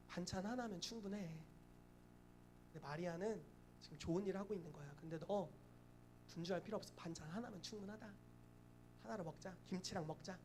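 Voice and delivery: soft, easy-going counsel; gently calm a fussing host; gentle reassurance. Acted. Acting Jesus gently reassuring Martha.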